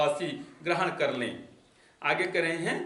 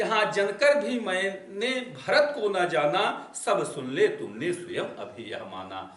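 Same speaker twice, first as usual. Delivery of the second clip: poem recitation. Acted. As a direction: recite the couplet like a poet on stage. Recites verse of Saket.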